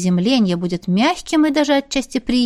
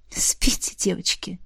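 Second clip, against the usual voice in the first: soft whisper with a snort; 2 semitones lower, 6 dB quieter than usual. Acted. Demoness tells the girls to sleep, whispered with a snort. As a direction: hush them off to sleep under your breath. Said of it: "фыркнула демоница".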